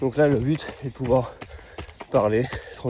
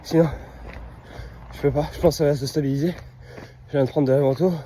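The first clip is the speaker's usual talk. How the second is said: winded and wheezing; struggling for breath mid-run; gasping for air; 4 semitones higher, faster than usual. Real, not acted. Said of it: "compliqué".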